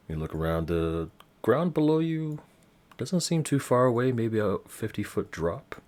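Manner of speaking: game master narration. Acted. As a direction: paint the scene for the players. Game master sets the scene.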